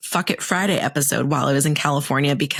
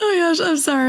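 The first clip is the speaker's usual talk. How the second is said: pitched way up, words through giggles; 14 semitones higher than usual. Starting a podcast episode and apologizing, laughing while talking. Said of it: "I'm starting this podcast laughing".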